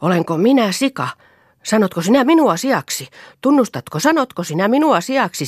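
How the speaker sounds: high furious shriek of insult. A narrator's reading. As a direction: screech it, offended. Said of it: "joka taas kirkui".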